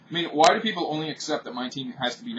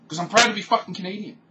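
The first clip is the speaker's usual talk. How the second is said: mock defiant pride; 9 semitones higher, 6 dB louder than usual.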